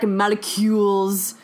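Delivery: slow, odd "molecules"; weird narrator pronunciation. Retold or imitated. Imitating the film's narrator for co-hosts, weirdly stretched word. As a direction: draw out "molecules" strangely. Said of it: "She said it very weird".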